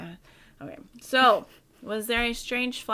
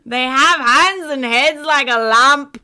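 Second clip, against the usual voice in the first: high, loud mock panic; hammed-up alarmed witness; frantic witness; 4 semitones higher, 10 dB louder than usual. Frantic witness quote acted out.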